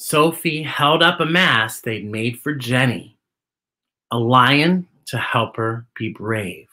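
put-on lilting read-aloud for children; gentle picture-book narration; story narration.

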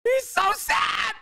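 mock pity. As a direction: coo over them in fake sympathy. Mocking crying police officers.

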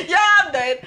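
laughing through the words in disbelief. Real, not acted. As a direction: tertawa sambil bilang sudah menyerah. Laughing at rude boy's comment.

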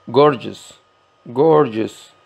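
gorgeous with the weight on gor; stress on first syllable. Shown as a demonstration. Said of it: "la fuerza de pronunciación en la primera sílaba". (acento en gor de gorgeous)

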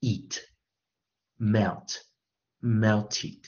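melted said slowly in pieces: eat, melt, then melted; word endings demonstrated. Shown as a demonstration. Teacher showing students the ending of melted, slow demonstration. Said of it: "的，的结尾音".

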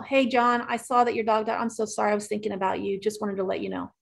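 softly sympathetic, fading; gently sincere. Retold or imitated. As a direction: voice softening and dropping as the note goes on. Sympathy note read out.

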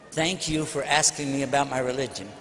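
low, measured politeness; calm courtesy. Retold or imitated. Muslim answering an insulting questioner without getting angry, calm courtesy. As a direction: answer evenly, keep the voice low.

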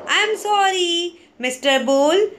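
high, small apologetic plea; small mouse voice. A narrator's reading. Mouse apologising to the bull who woke, small high voice. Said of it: "cried the mouse in a small voice".

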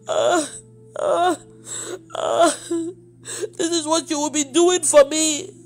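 halting, tearful stammer; choked up. Real, not acted. Woman retelling God's command to her, choked with tears. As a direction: fight through tears to finish.

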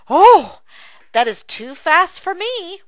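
put-on high, startled little kid; a child shrinking back; alarmed child. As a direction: gasp like a worried child. Dialogue, child voice.

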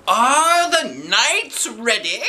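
high, slow, loud call to the field; shouted. Acted. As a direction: announce the joust loudly. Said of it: "shouted Neil".

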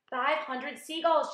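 slow, high, loud announcement; shouting. A narrator's reading. James announcing the tally as peach sinks, shouting. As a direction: shout the new total, drawn out. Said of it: "James shouted".

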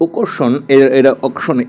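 first vowel of "আকর্ষণ" like "ও"; auction pronunciation demo. Shown as a demonstration. Teacher shows students the English word, o-like first vowel in "আকর্ষণ". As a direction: say "আকর্ষণ" opening on an o sound. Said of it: "ওর মতো উচ্চারণটা হয়".

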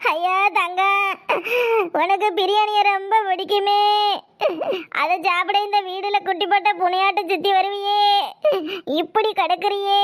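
crying out the lament in a shouting wail. Acted. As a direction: cry and shout the grief over the body. Loud wailing over the corpse.

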